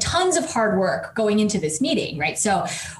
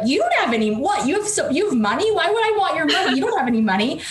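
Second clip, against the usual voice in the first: higher, faster, tumbling words; nervous flustered insult; 5 semitones higher, faster than usual. Retold or imitated. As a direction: blurt it out flustered and fast. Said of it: "in my nervousness, like, I insulted him".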